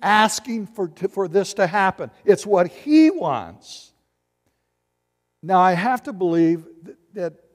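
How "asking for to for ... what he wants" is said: rising insistence. Shown as a demonstration. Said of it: "his voice is raising".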